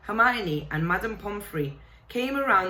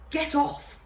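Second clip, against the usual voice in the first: sharp, higher startled cry; loud; 10 semitones higher than usual. Acted. Harry startled awake in the dark, loud high cry. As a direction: jerk awake and shove the stranger off. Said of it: "he said loudly".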